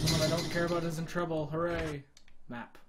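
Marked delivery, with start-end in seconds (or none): 1.5-2.0 flat sarcastic cheer; deadpan fake hooray. Real, not acted. Mocking cheer.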